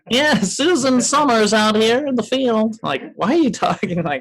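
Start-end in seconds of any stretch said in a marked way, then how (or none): 0.1-2.8 high, nasal field reporter. Retold or imitated. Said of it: "with the nasally voice".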